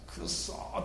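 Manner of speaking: whispered frustrated curse; muttered curse. Retold or imitated. Prophets frustrated at Elijah's taunts, whispered curse. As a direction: breathe the curse under your breath. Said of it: "と思ったんですね".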